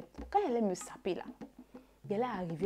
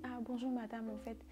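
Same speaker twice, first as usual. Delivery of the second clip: softer, careful and polite; gentle and careful; 2 semitones higher, 6 dB quieter than usual. Retold or imitated. Calling the woman who has her phone, soft and careful. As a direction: ease into it softly so as not to upset her. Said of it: "je vais aller tout doucement avec elle".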